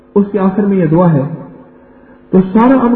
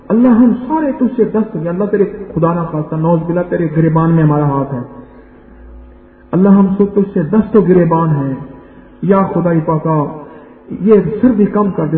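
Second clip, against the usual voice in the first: lower, Pashtun-accented prayer, lightly imitated; Pashtun cleric's accent; 4 semitones lower, 3 dB quieter than usual. Preacher recalling a Pashtun imam's Eid prayer, mild Pashtun accent. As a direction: mimic a Pashtun imam's earnest supplication. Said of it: "ایک پٹھان اور عالم نے دعا مانگی".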